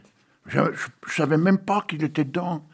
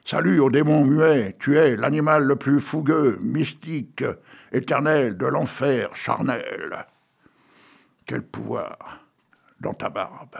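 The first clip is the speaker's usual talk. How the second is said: poem reading; slower than usual. Acted. Host reads poem on air.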